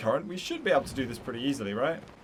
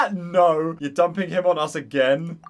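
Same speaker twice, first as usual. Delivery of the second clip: loud, playful protest; hammed-up indignant no; mock outrage; 4 dB louder than usual. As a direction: complain loudly, half joking. Mock outrage at Childe's request.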